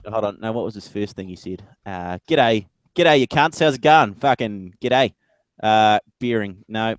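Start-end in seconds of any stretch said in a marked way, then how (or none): 2.3-5.1 broad mock Aussie, loud and lifted; exaggerated Aussie greeting voice; hammed-up Australian accent. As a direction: do your best over-the-top Australian. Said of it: "put on my best Australian accent".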